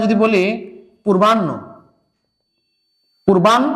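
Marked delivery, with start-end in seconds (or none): 1.0-1.5 পূর্বাহ্ন with a double n, no h; common mispronunciation. Shown as a demonstration. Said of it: "ভুল করে উচ্চারণ করি". 3.3-3.7 পূর্বাহ্ন broken as "purban-ho"; teacher's careful "purban... ho" for পূর্বাহ্ন; correct pronunciation. Shown as a demonstration. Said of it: "পূর্বাহ্ন না, পূর্বাহ্ন".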